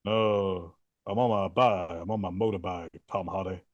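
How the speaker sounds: low lazy rock-and-roll singer mumble; a lightly voiced famous singer; mock singer impression. Butler stuck in a famous singer's voice in The Bike Riders.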